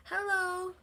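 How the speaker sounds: high, whispered hello to the cat. Real, not acted.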